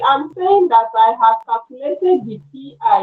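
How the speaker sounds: speaking up. Real, not acted. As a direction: raise the voice to be heard. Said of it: "can you speak up?".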